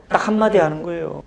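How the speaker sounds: normal talking voice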